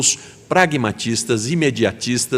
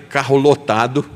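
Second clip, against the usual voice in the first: ordinary delivery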